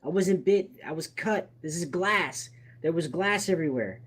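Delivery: lightly voiced desperate denial; pleading wounded man. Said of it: "who's bleeding from the hand is like".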